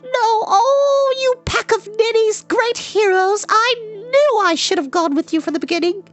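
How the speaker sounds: put-on high, loud scolding girl's voice; exasperated scolding. A narrator's reading. Eilonwy scolding the men for losing the cauldron, exasperated. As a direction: scold the foolish heroes.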